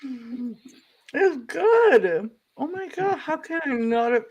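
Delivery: cheeks stuffed full while talking; mouth full. Real, not acted. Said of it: "sorry, talking with my mouth full".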